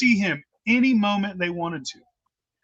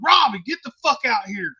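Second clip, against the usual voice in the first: yelling; 4 semitones higher than usual. Retold or imitated. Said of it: "And I'm yelling".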